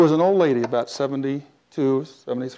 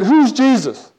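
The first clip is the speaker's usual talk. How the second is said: imitated crying woman; 8 semitones higher, 4 dB louder, slower than usual. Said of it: "She's just crying".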